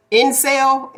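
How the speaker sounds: INCEL with the second syllable drawn toward "sale"; accented pronunciation. Real, not acted. Cohost groping for the term, accented pronunciation. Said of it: "That's my accent".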